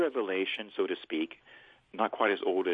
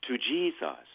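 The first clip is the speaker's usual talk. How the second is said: prayer phrase; 4 semitones higher than usual. Shown as a demonstration. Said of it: "But I'll do it phrase by phrase".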